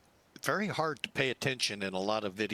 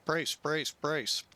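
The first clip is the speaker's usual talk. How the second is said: crew shouting brace; 4 semitones higher, slower than usual. Pretend. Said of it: "just practicing".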